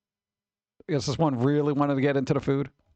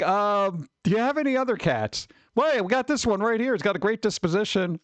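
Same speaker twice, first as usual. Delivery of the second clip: higher voiced customer and shelter worker, lightly played; mock adoption dialogue; 4 semitones higher than usual. Streamer acting out an adopter asking about cats, higher and playful. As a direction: act out a hesitant adopter and an upbeat clerk. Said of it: "They're like".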